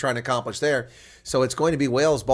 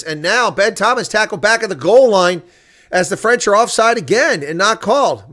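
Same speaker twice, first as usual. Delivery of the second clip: excited play-by-play; 7 semitones higher, 8 dB louder than usual. Acted. Live call of goal-line tackle.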